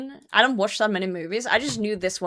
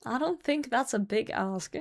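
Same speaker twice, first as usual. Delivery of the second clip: softer, muttered to herself; quiet repeat; 7 dB quieter than usual. Real, not acted. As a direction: repeat it under your breath. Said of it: "And I don't think that's a big ask".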